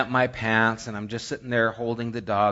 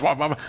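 tag; much faster than usual. Retold or imitated. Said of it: "and the dog just".

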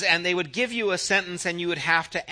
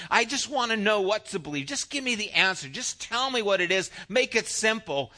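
a bit higher, half-hearted plea; pleading believer; 4 semitones higher than usual. Retold or imitated. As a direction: ask God for the simple answer. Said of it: "And it's like".

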